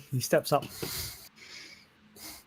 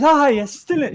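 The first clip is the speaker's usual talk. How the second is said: put-on Welsh accent; 12 semitones higher, 6 dB louder, slower than usual. Queen voice resumes.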